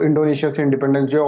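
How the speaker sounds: quick, pressing retold demand; urgent mock demand. Teacher voicing East Timor people demanding independence, quick and pressing. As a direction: rattle it off like protesters demanding freedom. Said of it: "इसने बहुत struggle करा कि".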